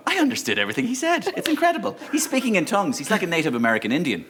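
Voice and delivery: high-pitched awestruck retelling; mock amazement. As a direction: gush in wonder, pitch soaring then settling. Acts out amazed listeners afterwards.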